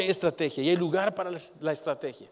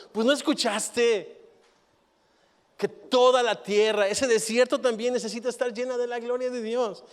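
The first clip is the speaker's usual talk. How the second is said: pointed rebuke; 9 semitones higher, 5 dB louder than usual. Acted. Jesus voiced answering disciples.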